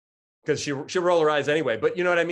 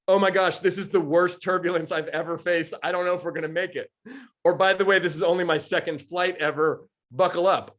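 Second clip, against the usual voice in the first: panicky pilot; 4 semitones higher than usual. Retold or imitated. Pilot announcing to passengers, mock panicked and raised. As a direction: play a pilot losing his nerve on the intercom.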